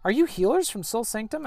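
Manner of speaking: lightly voiced eager stranger; surprised girl. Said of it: "she says".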